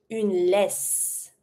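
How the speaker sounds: laisse ending on a long S; S sound ending. Shown as a demonstration. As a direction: finish "laisse" on a hissed S. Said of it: "S sound".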